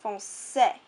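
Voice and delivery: "français" with the ç sounded as S; S, not K, in "français"; soft C. Shown as a demonstration. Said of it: "makes a C become more of an S".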